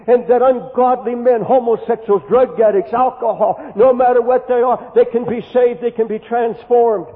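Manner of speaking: loud fervent preaching. Real, not acted. Preacher proclaiming to his congregation, loud and fervent. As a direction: drive the promise home to the crowd.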